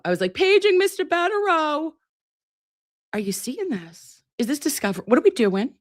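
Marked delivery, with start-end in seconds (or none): 0.3-1.9 much higher announcer-style paging call; high mock PA page; mock intercom page. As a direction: play the hospital PA. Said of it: "I was about to page Mister Betterow".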